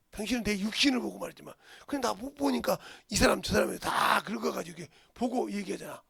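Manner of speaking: rising preacher's shout. Shown as a demonstration. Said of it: "phrase repeated".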